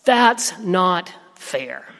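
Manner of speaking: slow, drawn-out child's protest, lightly imitated; mild retold yell. Grieving daughter protests to her dad, mild retold yell. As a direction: draw each word out in mock hurt anger. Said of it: "with a combination of anger and sadness, yelled out".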